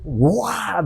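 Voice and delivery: drawn-out mock roar of rage; imitated "guau" growl of anger; angry ogre roar. Preacher mimicking an angry young woman after his talk, mock roar. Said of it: "que parecía Shrek".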